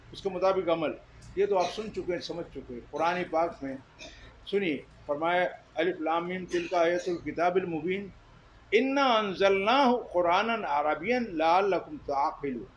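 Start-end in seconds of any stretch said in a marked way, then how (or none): 5.7-12.6 slow, measured chanting of the verse; Quranic recitation. Acted. Preacher recites the verse to the congregation, slow chant. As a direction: recite it slowly like scripture.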